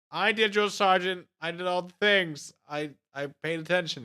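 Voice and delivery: protesting recruit. Retold or imitated. Recruit protesting to drill sergeant.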